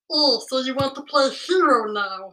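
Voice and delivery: feral snarling. Acted. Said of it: "that wasn't in the script".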